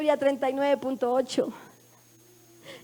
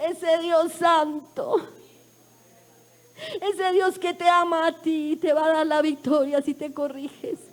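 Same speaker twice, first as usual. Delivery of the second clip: impassioned church testimony, slow and raised; fervent testimony; 2 semitones higher than usual. Real, not acted. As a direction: preach it with tearful fervor, stretching the words. Fervent testimony about God to the congregation.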